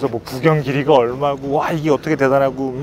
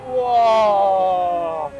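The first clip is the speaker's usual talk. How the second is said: long awed wow; 5 semitones higher, much slower than usual. Real, not acted. Drawn-out awe on slope.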